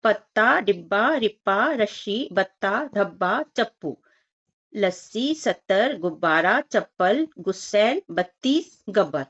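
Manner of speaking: put-on each word read out separately for children; reading word list aloud. Shown as a demonstration. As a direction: model each word slowly for the class. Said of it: "पढ़ लेते हैं इसे".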